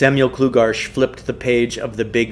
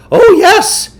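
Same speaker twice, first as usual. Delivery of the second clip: high, laughing yes; 11 dB louder than usual. Acted. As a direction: toss it off with a laugh. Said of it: "Samuel Klugarsh laughed".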